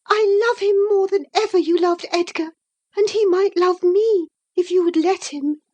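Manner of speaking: put-on a lovestruck girl digging in; infatuated girl. Isabella defying Catherine, high and stubborn.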